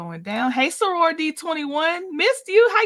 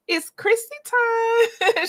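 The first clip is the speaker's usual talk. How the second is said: drawn-out, higher, slow hype-man call; announcer call; 9 semitones higher, much slower than usual. Pretend. Greeting a viewer on the live stream, slow hype call. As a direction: announce her like a show host.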